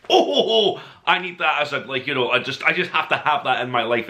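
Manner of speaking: laughing through an excited quote; laughing delight. Retold or imitated. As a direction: chuckle it out, delighted. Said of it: "I was just like".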